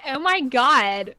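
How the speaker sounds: loud, drawn-out mock American accent; hammed-up American exclamation; imitated American accent. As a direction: exaggerate an American accent, stretching the vowels. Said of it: "imitate American accents".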